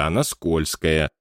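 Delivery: slow, strained words through clenched teeth; through gritted teeth. A narrator's reading. Scene: Wallace straining at the planchette, through teeth. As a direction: grit your teeth. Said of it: "сквозь стиснутые зубы".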